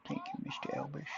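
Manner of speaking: soft, mock singer-style thank-you; impression of a famous singer. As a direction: hum it softly like a playful famous singer. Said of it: "Elvis impression voice".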